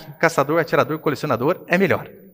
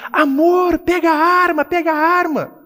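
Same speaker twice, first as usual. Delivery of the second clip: much higher, frantic cry to her husband; panicked shout; 13 semitones higher, 4 dB louder than usual. Retold or imitated. Wife in the story crying out to her husband, much higher and frantic. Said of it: "gritando pro marido".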